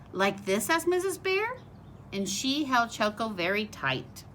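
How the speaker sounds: lively storybook read-aloud voice; reading to children. A narrator's reading. Teacher reading a picture book to her class, bright storytelling voice.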